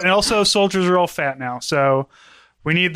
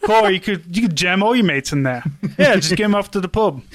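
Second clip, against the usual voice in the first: put-on British accent; 3 semitones higher than usual. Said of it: "I'm the British guy".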